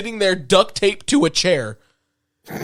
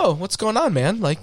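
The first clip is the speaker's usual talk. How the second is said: nonchalant. Retold or imitated. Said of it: "Like, super nonchalant".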